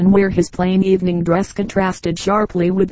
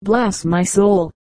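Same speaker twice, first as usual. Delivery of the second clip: exclaiming; much slower than usual. Acted. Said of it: "exclaimed the old gentleman".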